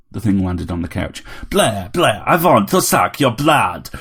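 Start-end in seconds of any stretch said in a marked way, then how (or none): 1.5-3.9 higher, slow put-on Transylvanian robot voice; vampire bot calling out. A narrator's reading. Vampire robot calling to Harry from the couch. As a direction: ham up the little bloodsucker. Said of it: "it called".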